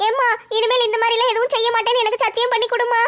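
lightly voiced young girl, earnest and pleading. Daughter makes her mother promise never to try again, lightly voiced earnest girl.

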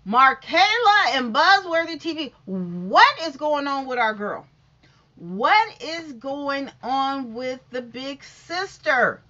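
slow, loud dramatic gossip. Real, not acted. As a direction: draw out the big question. Dramatic gossip question to hosts.

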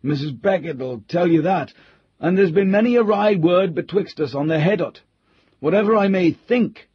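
put-on a touch of a grumbling old country butler; old butler Cooper. A narrator's reading. Old butler Cooper grumbling to the squire, lightly voiced.

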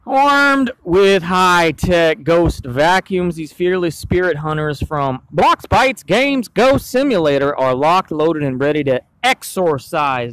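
dramatic trailer read. Acted. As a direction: sell it like a movie trailer. Reads product blurb.

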